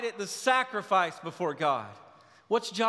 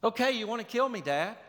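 sarcastic, higher; 3 semitones higher, faster than usual. Acted. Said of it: "It's sarcasm".

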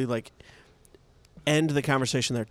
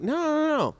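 emphatic no; 14 semitones higher than usual. Retold or imitated. Refusing the plain answer.

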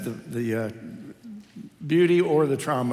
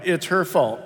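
blaming; 3 semitones higher, 4 dB louder than usual. Acted.

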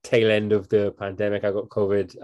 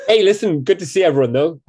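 excited; 6 semitones higher, 6 dB louder than usual. Real, not acted. Cheery greeting to listeners.

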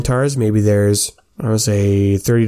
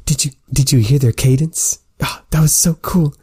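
beaming excitement; 5 semitones higher than usual. Acted. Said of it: "Sympathy is just beaming".

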